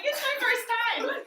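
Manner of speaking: high, laughing exclamation; retold giddy protest. Girl answering her boyfriend's praise, giddy and high. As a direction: blurt it out high through a laugh.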